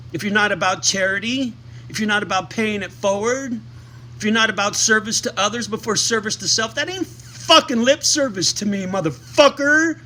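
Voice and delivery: building rant, ending in a loud high yell; heated hollering. Real, not acted. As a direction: hammer each "not", then blow up on the last words. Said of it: "enough of my hooting and hollering".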